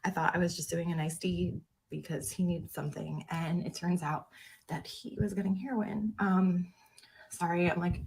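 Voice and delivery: steady voice with shaky moments. Real, not acted. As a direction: voice shaking, trying to hold steady. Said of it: "my voice is shaking".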